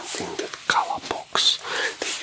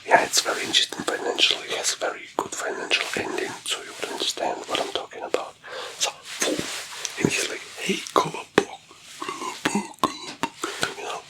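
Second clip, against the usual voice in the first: unvoiced whisper, figures acted in whisper; whispered storytelling; 2 semitones higher than usual. A narrator's reading. Storyteller plays wolf threatening Kolobok, all whispered. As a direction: whisper the tale and its dialogue.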